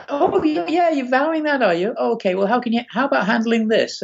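mocking high-pitched "oh, yeah"; voiced-up sardonic God, starting high then settling; teasing God. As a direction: needle him as a mischievous deity. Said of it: "God hath a sense of humor".

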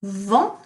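teacher showing Vent without T; silent final T. Shown as a demonstration. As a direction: Vent said as nasal vahn with no T. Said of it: "So we don't pronounce the T".

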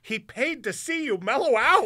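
loud, high retort; imitating exasperated buddy. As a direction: call it out in mock exasperation.

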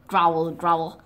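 low spoken growl; mock growl. Playing the wolf for the kids, a low spoken growl.

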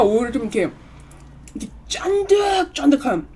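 talking while chewing cake; mouth full chewing. Real, not acted. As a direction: hand at mouth eating. Seen 0: Puts cake to mouth at 2.3, chews talking, hand at lips.

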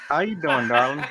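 lightly put-on Texan accent, flirty; a hint of a Texan cowboy greeting his darling; mock Texan drawl. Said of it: "my Texan accent on".

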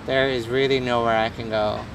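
put-on low, level American accent. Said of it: "it's a decent American accent".

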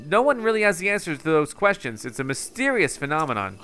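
game researcher, earnest explanation with lilting emphasis; lightly voiced absorbed researcher. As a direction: explain a mystery like a lightly acted scholar.

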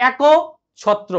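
এক then ছত্র, with a short pause between them; careful syllables. Shown as a demonstration. Teacher to class, spelling out এক ছত্র syllable by syllable. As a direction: split এক and ছত্র apart slowly. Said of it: "এক ছত্র হবে না কিন্তু".

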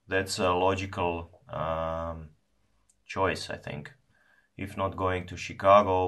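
talking around pipe stem; pipe in mouth. Real, not acted. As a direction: pipe clenched in mouth corner. Seen 1: Pipe stem held in mouth corner while talking, hand supports bowl.

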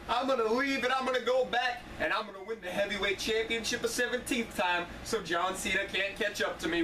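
a lightly voiced boastful wrestling champ; hint of a swaggering wrestler promo; Ric Flair impression. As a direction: strut through it like a cocky champion. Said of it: "Ric Flair would break into my house".

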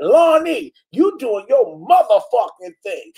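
mock cheer of a fan's comment, first take; imitating Tracy. Host replays a fan's comment, first take, mild mock cheer. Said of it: "I can see how Tracy said that".

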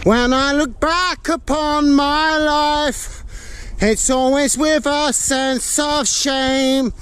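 slow, solemn reciting; mock solemn recitation. Walker reflecting on his life, slow solemn recital. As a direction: recite it like a grave poem.

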